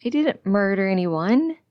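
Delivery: firm, emphatic denial; protesting. A narrator's reading. Patient accused of murder to the nurse, protesting. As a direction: protest your innocence. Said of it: "it protests".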